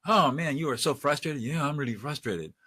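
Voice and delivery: acted de-escalation, winding down; intensity coming down. Shown as a demonstration. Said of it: "high intensity to low intensity".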